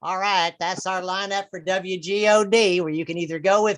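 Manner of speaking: lightly voiced evangelist announcer; preacher's radio sign-off, rising at the end; radio host signing off. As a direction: wrap up the mock lineup like a station host. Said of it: "they give you the weekly lineup".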